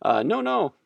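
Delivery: lightly hammed-up French accent; snotty French accent. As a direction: play a snooty French water brand, French accent. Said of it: "their snotty French accent coming in".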